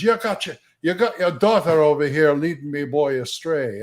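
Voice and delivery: lightly voiced Scottish dwarf. Scottish dwarf scolding a rival neighbor, lightly acted Scottish accent. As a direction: accuse in a hint of Scottish brogue. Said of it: "I had the one that's a Scottish one".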